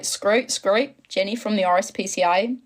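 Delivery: warm-up phrases in an Australian accent; amateur attempt at sounding Aussie. Shown as a demonstration. Streamer getting into character, rough Australian accent. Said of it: "That's how I get into my Australian accent".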